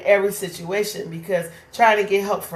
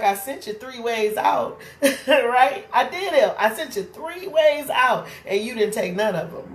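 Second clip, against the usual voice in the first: higher, laughing reply; God answering; 4 semitones higher than usual. Retold or imitated. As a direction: answer with amused patience. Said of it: "And God's like".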